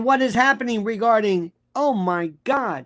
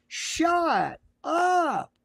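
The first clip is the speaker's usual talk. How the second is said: dismissive shout; 6 semitones higher than usual. Real, not acted. Snapping at mocked Bongino.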